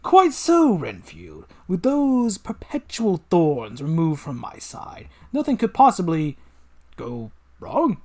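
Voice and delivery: gloating evil genius, slow and grand; villain voice. Acted. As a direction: savour every word like a mad scientist.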